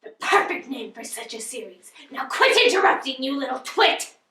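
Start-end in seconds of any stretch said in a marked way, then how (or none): 2.1-4.2 angry. Acted. Havisham scolds interrupter.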